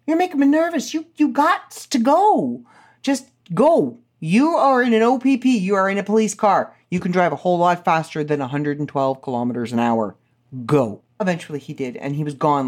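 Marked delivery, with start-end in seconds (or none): 0.1-11.0 pleading. Retold or imitated.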